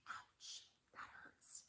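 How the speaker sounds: hushed, breathy mock pain; whispered ouch. To the child, whispering the fallen pain. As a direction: whisper the hurt like a secret. Acting hurt after fall.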